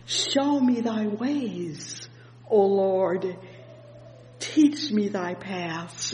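very slow prayerful reading; slow, prayerful psalm reading; scripture reading. Acted. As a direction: draw the verse out like a prayer. Reads verse four slowly.

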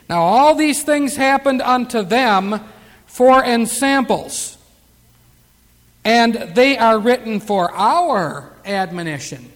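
slow, emphatic Bible reading; deliberate pulpit declamation; scripture reading. Acted. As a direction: read it out weightily, phrase by phrase. Reads scripture aloud.

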